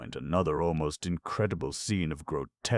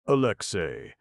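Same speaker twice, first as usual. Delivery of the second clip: loud call across a distance, higher; shouting from far off; 5 semitones higher, 6 dB louder than usual. A narrator's reading. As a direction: call his son's name from afar. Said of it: "his father shouted from far off".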